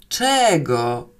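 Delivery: drawn-out, mildly grim reply; gloomy howl. Acted. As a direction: answer with sullen annoyance. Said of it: "zawyłam ponuro". (ponure, lekko zawodzące pytanie)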